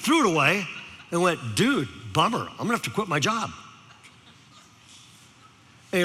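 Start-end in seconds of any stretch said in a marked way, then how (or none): 1.6-3.5 mock-dismayed Valley dude, softer; Valley teenager. Speaker pretends to give up, quick Valley-dude imitation. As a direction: toss it off quickly like a bummed Valley kid. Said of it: "decided to use his language".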